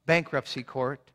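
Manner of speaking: ordinary talk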